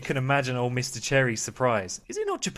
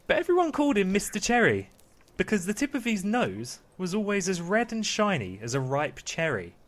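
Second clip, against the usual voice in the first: measured bedtime-story narration; storytelling to children; 7 semitones higher, 3 dB louder than usual. Acted. Dad reading Pinocchio to the kids, storytelling voice. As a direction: read it out with deliberate pauses.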